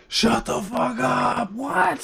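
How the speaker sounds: high, slow, shouted disbelief; shocked shout at the chat; stunned disbelief. Real, not acted. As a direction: yell it like you can't believe it. Disbelief the chat hears water.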